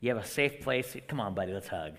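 casual kindly Jesus; gentle Jesus. Pretend. Preacher imagines Jesus comforting the leper, low and soft. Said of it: "Jesus looked at the leper and said".

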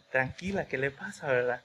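softly, gently calming; soothing. Retold or imitated. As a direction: quietly comfort a stranger in tears. Friend comforts crying woman.

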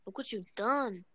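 Latino-accented mock telenovela scolding; put-on Latino accent. Blaming Carlos for lost money and drugs, in a put-on Latino accent. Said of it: "talk with the accent".

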